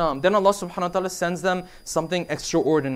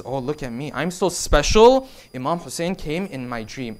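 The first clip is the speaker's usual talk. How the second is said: mock self-importance; 4 semitones lower than usual. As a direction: imitate a smug boaster. Mocks a self-important believer.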